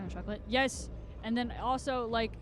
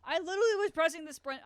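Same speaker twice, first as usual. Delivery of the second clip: frustrated outburst; 8 semitones higher, 7 dB louder, faster than usual. Real, not acted. Frustrated complaint.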